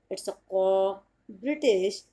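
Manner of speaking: very slow British "cop" with no r or s; British way, clipped "cop" said slowly; British pronunciation. Shown as a demonstration. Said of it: "एक बार फिर से बता देती हूँ".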